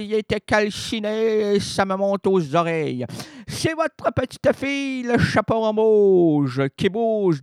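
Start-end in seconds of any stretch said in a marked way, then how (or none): 3.5-7.4 wolf putting on a little girl's voice, hammed up; hammy wolf faking a girl's voice; wolf disguising voice. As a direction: fake the granddaughter badly. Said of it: "en contrefaisant sa voix".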